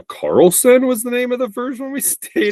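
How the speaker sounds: laughing through the words; chuckling as he recalls it. Real, not acted. Laughing while recalling a hotel.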